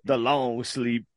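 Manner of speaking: drawn out slowly; slow dramatic. Acted. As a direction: stretch each word out.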